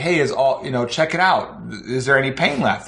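normal talking voice

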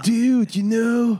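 nineties surfer dude voice. Mocking an actor's usual manner: Keanu Reeves surfer dude voice. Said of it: "zo de jaren negentig surfer dude".

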